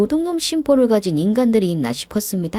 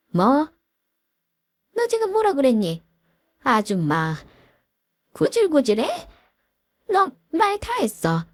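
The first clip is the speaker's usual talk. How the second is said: higher, indignant disbelief; outraged; 6 semitones higher than usual. Acted. Mother-in-law stunned and furious at the bride, higher. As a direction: demand she take it back.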